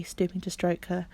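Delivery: ordinary delivery, nothing marked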